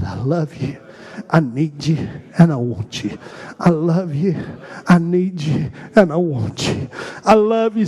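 from hushed up to full voice. Shown as a demonstration. Congregation urged to say it aloud, rising in volume. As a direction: grow it until the room hears. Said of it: "Can we say it out loud?".

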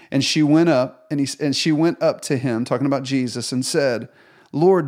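scripture reading. A narrator's reading. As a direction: read the Gospel text aloud to the congregation. Reads the Bible passage aloud.

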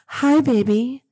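a light, sugary hint of sweetness; sweet persona voice. Host greeting her listeners in a mildly sweet voice. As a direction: coo a hello like a sweetheart. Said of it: "in my sweet Michelle voice".

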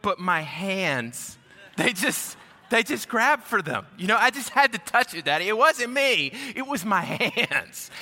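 lightly voiced child explaining herself, building in pitch; imitated little girl's earnest excuse, stretched last words; pleading young daughter. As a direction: plead innocence like a preschooler, halting then rising. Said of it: "My daughter goes".

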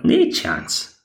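high breathy mock devil refusal; flat denial. Devil denying his mother, high whispered mock refusal. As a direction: brush her off in a mock whisper. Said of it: "He's like".

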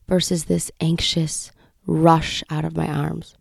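slow, soothing, measured voice; God's gentle reassurance. Retold or imitated. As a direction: lull softly, word by word. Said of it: "he continued on in my heart to say".

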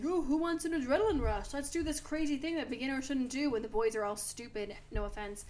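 hyped-up show-off trainer voice; loud, eager dare to the boys; mocking the trainer. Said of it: "And he was like".

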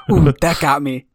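squealed ooh through a laugh; laughing echo. Pretend. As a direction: echo the phrase with a delighted squeal. Echoing co-host's phrase, laughing.

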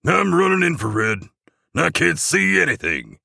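high-pitched elf crewman; squeaky-voiced technical report; Jingleman. A narrator's reading. Jingleman reports to Santa on infrared, high elf voice. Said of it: "says Jingleman".

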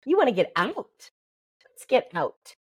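tender, unhurried words to an infant, eye to eye; gentle talk to baby. Shown as a demonstration. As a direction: soothe the baby while naming what it wants. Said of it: "sit and find your eyes and you go".

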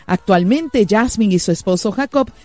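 smooth announcer read over music; radio intro read. Acted. Host introducing the guest to listeners, announcer read. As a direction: present the guest like a broadcast host.

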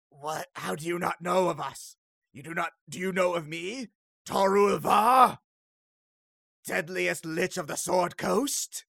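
pompous lich, swelling to a shouted name. Acted. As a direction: proclaim your title as an offended lich. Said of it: "The Lich then turns to you and says".

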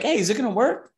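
high, hopeful asking; anxious question. Retold or imitated. Asking Andre if the transfer works, high and anxious. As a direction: ask if the money went through. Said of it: "I was like".

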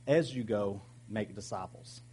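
"as you go" as lead-in, then "make disciples" set apart; stress on MAKE DISCIPLES. Shown as a demonstration. Pastor showing how Jesus sounded saying this, "make disciples" set apart. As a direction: pause before "make disciples", saying it deliberately. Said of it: "the emphasis probably sounded more like this".

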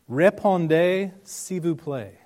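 "Répondez" drawn out high and loud, mock posh French; hoity-toity French. Shown as a demonstration. Pastor teasing the congregation with mock posh French. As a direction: camp up the French, "Répondez" lifted and stretched. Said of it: "go all hoity-toity French on you".

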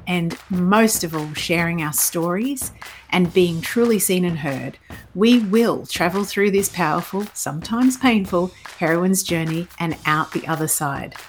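measured, warm host read over music; slow, deliberate podcast opening; podcast intro voice. Acted.

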